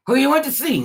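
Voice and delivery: high, loud cheerful greeting; chirpy friendly greeter. Retold or imitated. Imitating a friend greeting cheerfully, high and loud. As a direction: sing out a bright hello. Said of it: "one of those women that says".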